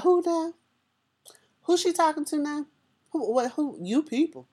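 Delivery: who is she even talking to, baffled; stunned disbelief. Retold or imitated. Inner voice reacting to the teacher's insult, incredulous and high. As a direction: pitch jumps high in shocked disbelief. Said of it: "She said".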